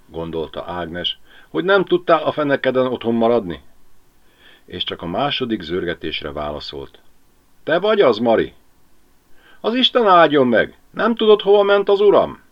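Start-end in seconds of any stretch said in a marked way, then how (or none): 1.5-3.6 quick irritated grumble; Ágnes cursing Mari in her head, quick irritated; grumbling thought. Acted. 7.6-12.4 much higher, louder worried wife; anxious Mari. Acted.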